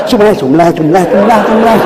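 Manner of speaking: "sumlah" gabbled fast and repeated; too-fast dhikr. Retold or imitated. Preacher mocks an imam's rushed dhikr, fast mumble. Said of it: "makan pisang goreng panas".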